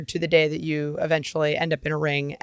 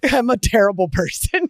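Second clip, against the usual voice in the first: higher, breaking into laughter; laughing confession; 4 semitones higher, 3 dB louder than usual. Real, not acted. Gamer admits tormenting a game character, laughing confession. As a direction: confess it through a giggle.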